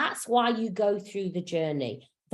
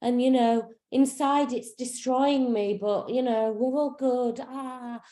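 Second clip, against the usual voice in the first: lightly hammed-up higher sing-song of a fake-positive seeker; mock spiritual bypasser; 4 semitones higher than usual. Mocking people who spiritually bypass, in a high fake-serene voice. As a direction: send them love and light with a forced airy sweetness. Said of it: "we're not spiritually bypassing and going".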